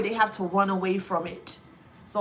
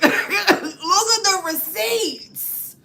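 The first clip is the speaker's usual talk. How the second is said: gloating; 7 semitones higher, 5 dB louder, much slower than usual. Real, not acted. Gloating over cards.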